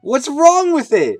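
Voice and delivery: high, slow disbelieving question; incredulous. Real, not acted. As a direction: sound baffled by the complaint. Incredulous at complaint.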